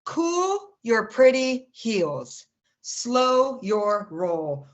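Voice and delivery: slow, drawn-out poetic delivery; spoken-word poem opening. Acted. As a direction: stretch each word to set up the poem.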